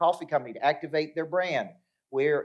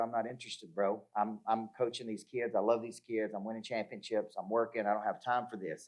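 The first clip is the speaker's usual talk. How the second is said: low, much softer retold refusal; quiet brush-off; 6 semitones lower, 10 dB quieter than usual. Coach retells refusing the company man's offer, quiet low brush-off. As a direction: turn him down under your breath, low and unbothered.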